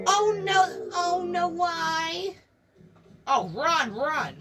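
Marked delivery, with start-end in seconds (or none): 0.1-2.3 high, drawn-out plea; dismayed wail. Acted. Reacting to a creepypasta video, dismayed wail. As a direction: wail it in dread at the screen.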